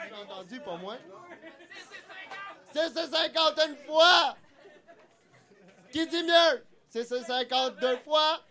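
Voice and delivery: auctioneer calling out bids. Pretend. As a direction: call each bid like an auctioneer. Runs a mock auction.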